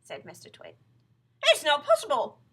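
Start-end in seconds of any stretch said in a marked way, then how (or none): 1.4-2.4 high, loud denial; disbelieving wife. Acted. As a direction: refuse to believe it. Wife protests in story.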